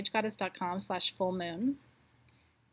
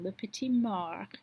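slow, light French accent on le petit mort; slower than usual. Shown as a demonstration. Host tosses in the French phrase with a light French accent. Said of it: "my little French accent there".

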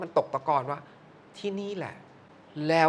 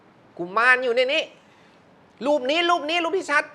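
higher and louder "กุมารอยู่ในนี้", slowed down; emphatic monk; 10 semitones higher, 4 dB louder than usual. Retold or imitated. Monk insisting the boy is in the photo, higher and louder. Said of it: "หลวงพ่อก็บอก".

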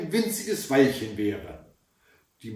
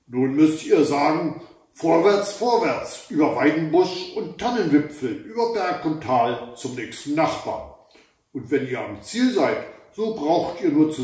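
loud, commanding troll instructions; troll giving orders; 4 dB louder than usual. Acted. Troll explains the seven-league boots, loud and commanding. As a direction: instruct the girls like a booming giant. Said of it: "sagte der Obertroll".

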